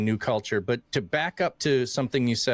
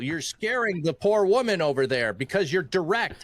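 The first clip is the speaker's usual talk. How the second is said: raised-pitch retold reproach; imitated wife's scolding; 6 semitones higher than usual. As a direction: scold a husband, imitating his wife. Wife voiced scolding him.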